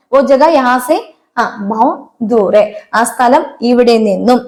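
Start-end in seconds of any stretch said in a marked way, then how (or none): 0.1-2.7 slow model sentence. Shown as a demonstration. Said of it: "ജഗ എന്ന് പറഞ്ഞ് നിർത്താം".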